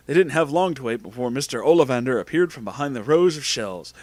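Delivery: plain reading voice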